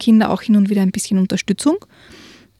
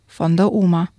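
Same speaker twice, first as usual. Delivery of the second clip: lively read-aloud storytelling; story narration. A narrator's reading. Reads a children's book aloud.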